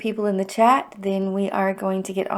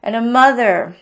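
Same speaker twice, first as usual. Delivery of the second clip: getting emotional; 3 semitones higher, 5 dB louder, faster than usual. Real, not acted. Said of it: "I'm gonna get emotional here".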